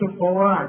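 "القواعد" with a dark "wo"; wrong heavy waw. Shown as a demonstration. Teacher showing what not to say, wrong heavy waw. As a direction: thicken the وا of "القواعد". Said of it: "ما تقولش".

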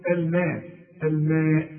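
"الماء" with a thin, fronted a; correct light vowel. Shown as a demonstration. Teacher telling the student what to say, correct light vowel. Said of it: "تقول".

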